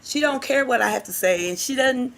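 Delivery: put-on child complaining. Teacher voicing a pupil's grievance about his mother, mildly plaintive. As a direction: imitate an upset child explaining himself. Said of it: "he started crying".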